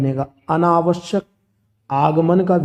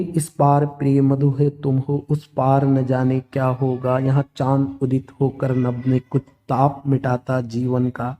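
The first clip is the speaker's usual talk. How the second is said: poem recitation; 2 semitones lower than usual. Acted. (हल्के स्वर में कविता पाठ)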